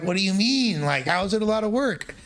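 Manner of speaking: high-pitched mock protest, rising in disbelief; retold incredulity. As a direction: act out a baffled comeback. Acts out own protest to grandma.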